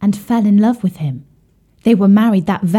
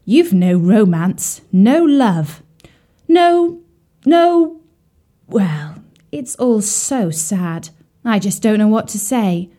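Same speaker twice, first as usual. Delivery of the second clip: dramatic lament; slower than usual. Acted. Swan laments lack of romance.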